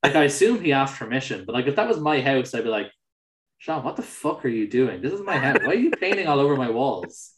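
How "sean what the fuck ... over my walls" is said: exasperated mock telling-off, raised and half laughing; mock outrage. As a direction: play at scolding a friend who trashed your house. Imagined telling off a friend.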